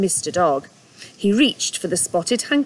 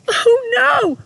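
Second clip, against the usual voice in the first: dismayed; 5 dB louder than usual. Acted. Rabbit learns no escape.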